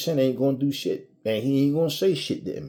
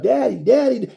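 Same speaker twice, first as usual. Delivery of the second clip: put-on child calling out; 10 semitones higher, 6 dB louder than usual. Kids calling their father.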